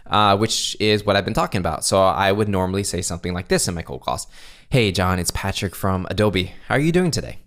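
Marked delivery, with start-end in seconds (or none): 4.7-7.4 easygoing greeting, lifting on the question; positive, casual tone. Shown as a demonstration. Caller opening a cold call, casually positive. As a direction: keep it casual with a hint of energy. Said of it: "go into the positive tone".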